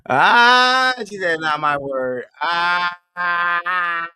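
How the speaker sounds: laughing. Real, not acted. Reacting to a viewer comment.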